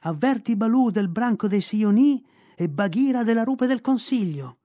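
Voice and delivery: high, loud urgent call; boy shouting his message to the kite. Acted. Shouting to kite while carried.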